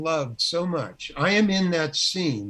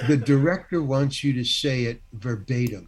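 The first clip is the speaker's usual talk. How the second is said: lower, measured mock-official instruction; imitated script lady; 4 semitones lower than usual. Script lady correcting the actor, mildly pointed. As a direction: lightly imitate a script lady insisting on exact words. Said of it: "And she said it like that".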